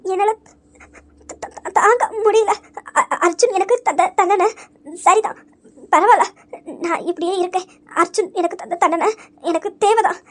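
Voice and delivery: put-on broken, stammering words of a crying girl; stammering through tears. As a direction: push the words out between sobs. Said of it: "அழாத சாச்சனா". (அழுகையில் தடுமாறும் குரல்)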